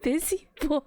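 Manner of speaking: high, sugary talking-down tone; imitating a cloying game heroine; mock sweet condescending voice. To a friend, mocking the game girl's condescending sugary voice. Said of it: "She goes".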